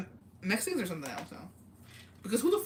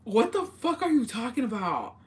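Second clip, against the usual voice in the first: baffled, higher-pitched retort; retold disbelief; 4 semitones higher than usual. Telling Jacobo's sighting story, own baffled reply. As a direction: act out being mildly incredulous.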